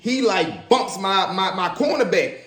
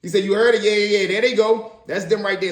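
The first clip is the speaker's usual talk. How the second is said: principal catching them; 4 semitones higher, 3 dB louder than usual. Retold or imitated. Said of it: "the principal like".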